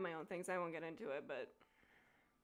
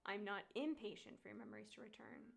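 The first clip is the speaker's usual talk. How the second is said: a hint of a gentle suitor, softer; lightly voiced tender Han; 4 dB quieter than usual. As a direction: soothe her softly, as the love interest.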